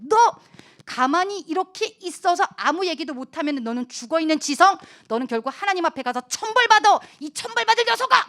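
threatening friend. Acted. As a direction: build up to a scolding curse. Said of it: "친구들이 또 협박하는 거죠".

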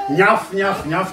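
lightly mocking little yaps; handbag poodle yap. Shown as a demonstration. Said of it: "takhle štěká pudlík v kabelce". (předváděné ňafání pudlíka)

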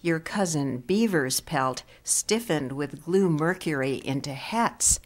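measured poem recital with long pauses; poetry reading. Acted. Poet reading to an audience before discussing the new book, measured poetry reading. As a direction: linger on the key words and let lines fall away. Reads own poem aloud.

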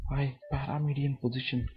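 soft unvoiced whisper. Shown as a demonstration. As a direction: whisper it to show the breathy voice. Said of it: "When I want to whisper".

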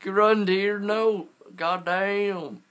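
high, loud urgent yell; panicked shout. Real, not acted. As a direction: yell at the deer to flee. Jaguar attacking the deer.

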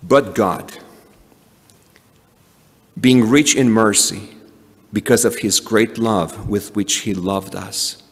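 measured reading with long pauses between phrases; slow Scripture reading. Real, not acted. Preacher reading the passage so the words sink in, slowly. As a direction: read it out deliberately, letting the words sink in. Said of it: "I'm gonna try to read slowly".

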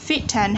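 FIT AND run together slowly as one unit; linked words. Shown as a demonstration. Teacher showing learners how words link, FIT AND linked slowly. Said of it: "chúng ta nối âm".

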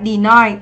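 "deny" stressed on the second syllable, ny; teacher modelling de-NY. Shown as a demonstration. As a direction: lean on the long i ending of "deny". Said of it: "cho âm hai và đây là âm I".

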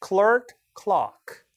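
clerk as "klurk", then clock as "klahk"; American then British. Shown as a demonstration. Teacher contrasting for students, clerk "klurk" then clock "klahk". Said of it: "완전 달라지죠".

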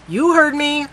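high, loud cold retort; angry snap. A narrator's reading. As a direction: shut her down hard. Neil snapping at Melissa.

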